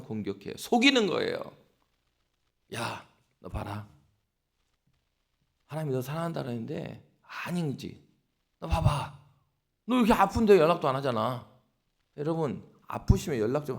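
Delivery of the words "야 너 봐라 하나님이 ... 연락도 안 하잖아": lightly voiced tempter, needling; a hint of a sly devil goading; Satan's whisper. Preacher voicing Satan to a sick believer, mildly sly. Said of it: "옆에서 막 속삭인다고요".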